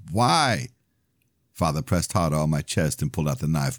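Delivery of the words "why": a high, gasping why; stabbed man gasping why; gasped question. A narrator's reading. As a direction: force it out on a gasp of pain. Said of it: "I gasped".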